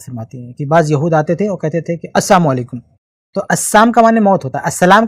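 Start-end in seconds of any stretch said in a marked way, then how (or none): 2.1-2.8 as-samu alaikum with the la dropped; twisted salaam. Retold or imitated. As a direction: slur السلام into السام, meaning death. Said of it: "زبان ٹیڑھی کر لیتے تھے".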